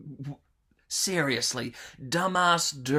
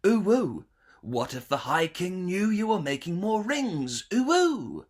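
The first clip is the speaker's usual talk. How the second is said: anteater; 3 semitones higher than usual. Acted. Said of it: "Anteater says".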